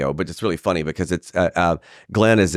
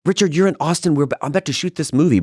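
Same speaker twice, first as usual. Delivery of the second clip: retold friend; 9 semitones higher than usual. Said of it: "she said".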